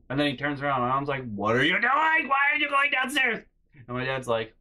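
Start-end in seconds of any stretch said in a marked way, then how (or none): 1.3-3.4 high, loud incredulous mom; mock disbelieving parent; alarmed mom. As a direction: shriek it like a shocked mom.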